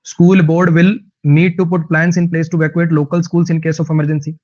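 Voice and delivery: very slow, word by word English reading; slow dictation reading. Shown as a demonstration. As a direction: read each word out clearly for learners. Reads example sentence slowly.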